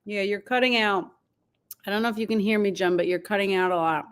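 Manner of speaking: talking with a mouth full of food. Real, not acted. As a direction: speak around a bite of food. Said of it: "I'm shoving food in my mouth".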